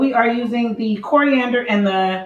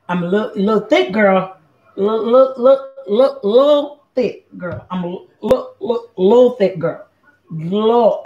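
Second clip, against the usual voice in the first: put-on playful country accent, words repeated; lightly mocking country twang. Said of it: "trying to get my country accent on".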